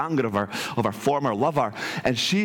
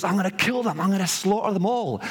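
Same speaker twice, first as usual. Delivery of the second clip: higher-pitched mock threat at normal volume; retold fury; 7 semitones higher than usual. Fed-up father god tells his lover his plan, mock fury. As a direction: play the god at the end of his tether. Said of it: "he starts to lose his mind".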